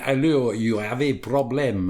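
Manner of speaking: slow hammed-up French accent, Alors drawn out; lightly put-on French policeman accent; mock French policeman. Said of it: "Oh, the French policeman".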